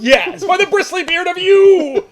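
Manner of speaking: high, loud, drawn-out bellow; mock Asgardian oath. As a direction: proclaim it in hammed-up Asgardian style.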